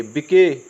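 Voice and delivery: बिके as "bi-ke"; wrong reading. Shown as a demonstration. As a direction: sound the final e of बिके. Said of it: "तो इसको बिके नहीं पढ़ेंगे". (बिके में आख़िरी "ए" बोलें)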